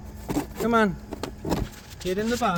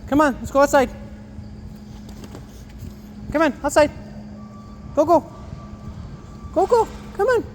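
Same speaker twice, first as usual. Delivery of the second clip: urging on; 9 semitones higher, faster than usual. Real, not acted. Shooing bird outside.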